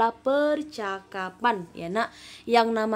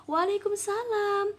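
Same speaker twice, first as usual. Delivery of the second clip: higher-voiced girl answering; Faridah's reply; 9 semitones higher than usual. Shown as a demonstration. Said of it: "Dijawab Faridah".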